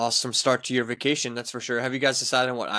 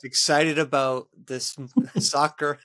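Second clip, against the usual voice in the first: laughing; slower than usual. Real, not acted. Teasing friend's excitement.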